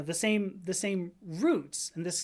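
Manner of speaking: normal talking voice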